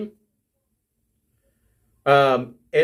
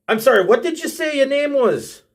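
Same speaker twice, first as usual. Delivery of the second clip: higher-pitched incredulous dwarf; a dwarf asking in a high, rising-and-falling lilt; 8 semitones higher than usual. Acted. Dwarf to the adventurer who just introduced herself, incredulous. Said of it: "the dwarf says".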